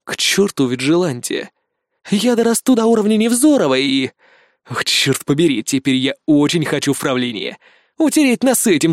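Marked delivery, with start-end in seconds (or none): none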